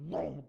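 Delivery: loud comic whoa; a big "whoa" as something drops; startled whoa. Acted. Helmet drops over David's head.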